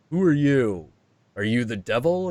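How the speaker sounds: startled. Retold or imitated. Jung startled by the stranger.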